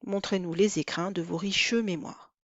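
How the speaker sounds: riches said with its E sounded before mémoires; mute e pronounced. Shown as a demonstration. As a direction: read riches in two syllables. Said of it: "quand le poète en a besoin".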